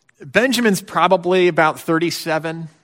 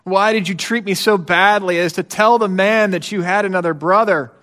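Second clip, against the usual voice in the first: complaining dad; 3 semitones higher than usual. Retold or imitated. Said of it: "Dad replies with a complaint".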